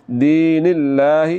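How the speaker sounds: دین اللہ slow, with a light thin lam; slow tajweed demo. Shown as a demonstration. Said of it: "باریک پڑھنا ہے".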